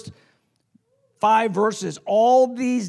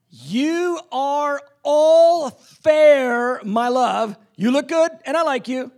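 affectionate Jesus; 4 semitones higher, 3 dB louder, slower than usual. Acted. Voices Jesus to the bride.

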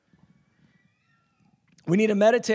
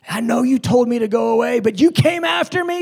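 excited Jesus; 4 dB louder than usual. Acted. Jesus voice rising to shout.

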